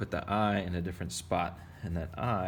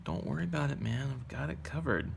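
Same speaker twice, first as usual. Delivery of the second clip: higher-pitched, swooping self-parody; mock breezy reassurance; 7 semitones higher than usual. Teacher answering a worried pupil about the drawing, mock breezy confidence. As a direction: play the overconfident driver waving off worries. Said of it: "And I'm like".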